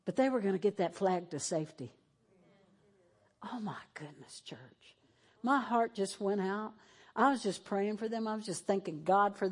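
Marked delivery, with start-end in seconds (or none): 3.5-5.0 whisper. Real, not acted. Overcome telling the flag story.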